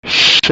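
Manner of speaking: 'ch' as one bare hushing sound; isolated phoneme. Shown as a demonstration. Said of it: "que é representado pelo C H".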